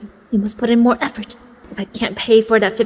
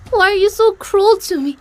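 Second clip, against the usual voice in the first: pitched up, begging louder; high pleading; 9 semitones higher, 4 dB louder than usual. Acted. Queenie begging Jeremiah not to reject her, high plea. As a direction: plead for his love, voice climbing.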